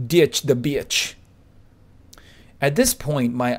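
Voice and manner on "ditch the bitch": Derek's slogan. Retold or imitated. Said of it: "as Derek would say".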